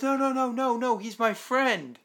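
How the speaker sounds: high, loud string of protests; urgent protest. Retold or imitated. Acting out the guy at the funeral, urgent protest. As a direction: imitate someone rushing to object. Retold man protesting amid the chaos.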